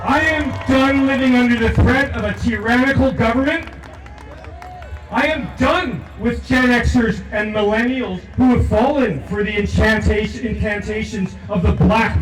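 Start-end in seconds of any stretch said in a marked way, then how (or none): 0.0-8.2 raised voice, pounding each "I am done"; rising rally cry. Real, not acted. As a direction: build the anger line by line. Angry "I am done" litany.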